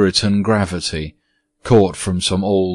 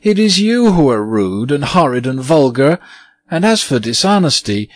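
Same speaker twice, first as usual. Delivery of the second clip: indignant scolding; 6 semitones higher, 4 dB louder than usual. Acted. Virginia scolds the ghost back.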